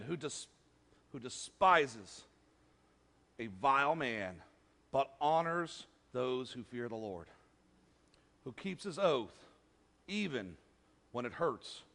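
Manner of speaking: low, soft, slow reverent reading; hushed reading. Acted. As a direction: let the verse sink in quietly. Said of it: "slow quiet scripture".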